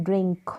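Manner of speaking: ड्रिंक with short i and a half n before k. Shown as a demonstration. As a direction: blend the n of ड्रिंक into the final k. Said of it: "एन को आधे न के रूप में". (ड्रिंक, आधे न के साथ)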